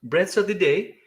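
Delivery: mock news anchor announcement; news announcer voice. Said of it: "This just in".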